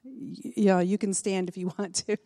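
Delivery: laughing nervously mid-sentence; nervous giggle slipping out. Real, not acted. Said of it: "trying to get rid of that nervous laugh".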